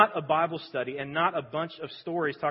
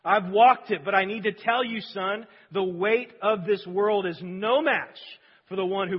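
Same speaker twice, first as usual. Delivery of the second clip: higher, louder preaching at full force; impassioned testimony; 4 semitones higher, 7 dB louder, slower than usual. Acted. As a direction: proclaim it slowly and forcefully.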